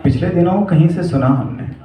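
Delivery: measured recital with long, weighty pauses; poetic monologue recitation. Acted. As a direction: recite it as a love poem, line by line.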